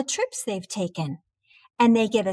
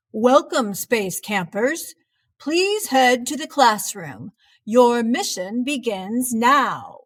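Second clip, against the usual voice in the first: announcer voice; 4 dB louder than usual. Acted. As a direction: announce it over the PA. Camp announcement.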